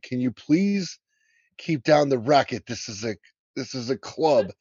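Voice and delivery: a hint of a stuffy old Englishman, huffy; lightly voiced curmudgeon shushing the noise; grumpy British gent. Clubman in the retold film scene, mildly huffy.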